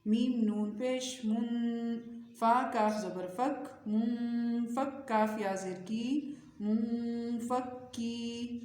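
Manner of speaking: slow drill with long nasal hums; measured tajweed recitation, nasals held; Quran spelling recitation. Shown as a demonstration. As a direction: spell each syllable, then join it in a drawn-out chant.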